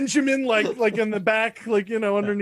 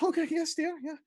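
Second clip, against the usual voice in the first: meek husband reply; 7 semitones higher, 6 dB quieter than usual. Acted. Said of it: "And he says".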